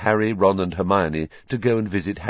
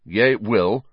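fierce. Acted. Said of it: "said Ron fiercely".

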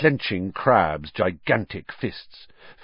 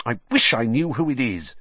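petulant; 4 semitones higher than usual. Acted. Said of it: "said Malfoy petulantly".

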